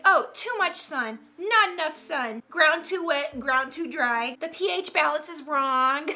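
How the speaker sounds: lightly voiced fussy, complaining plant; complaining Karen. Houseplant listing everything wrong, in a mock Karen whine. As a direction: gripe like a mild mock Karen. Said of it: "This plant sounds like a Karen complaining".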